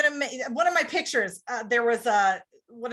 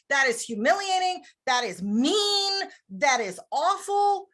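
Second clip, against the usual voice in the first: mock disapproval; 4 semitones higher than usual. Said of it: "A lot of people might say".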